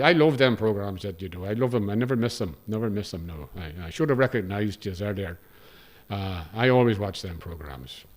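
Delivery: put-on lightly done Cavan accent, eager fan; a hint of a Cavan driver gushing. Driver telling the presenter he loves the show, in a light Cavan accent. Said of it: "I'm gonna attempt a Cavan accent".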